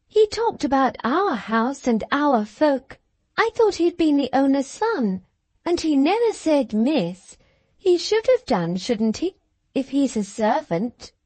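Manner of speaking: put-on high, chattering spoilt girl; young girl's voice. A narrator's reading. Cathy complains to Ellen, high childish chatter. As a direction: prattle on like a little lady.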